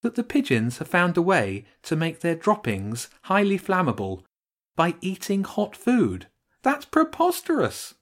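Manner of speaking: holding back a laugh. Acted. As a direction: fight the giggles as the idea gets sillier. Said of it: "trying not to laugh".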